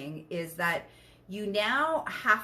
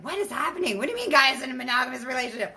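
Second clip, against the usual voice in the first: confused viewer; 4 semitones higher, 5 dB louder, much faster than usual. Retold or imitated. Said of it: "If you're like".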